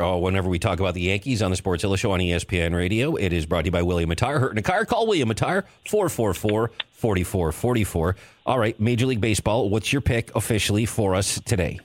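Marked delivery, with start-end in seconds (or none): 0.0-8.2 put-on fast old-time radio ad read; old-timey voice. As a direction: rattle it off like a vintage radio announcer. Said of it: "let me interject old-timey voice here".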